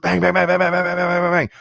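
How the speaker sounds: loud, rhythmic banging noises; mimicking a ghost banging in the dark; imitated banging. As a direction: pound out each bang. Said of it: "it's like".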